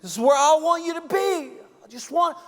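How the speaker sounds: high, loud, exultant father's voice; joyful father. Acted. The Father welcoming his son home, loud and high with joy. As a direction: proclaim it like a father throwing a feast. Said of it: "He was saying".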